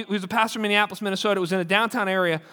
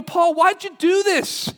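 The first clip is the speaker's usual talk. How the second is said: higher, slow disbelieving ask; incredulous question; 7 semitones higher, slower than usual. Retold or imitated. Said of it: "you go".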